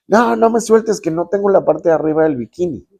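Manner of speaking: high, loud hammed-up panic; retold urgent plea. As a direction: mock-desperate girl confessing in a rush. Friend explains missing bikini top.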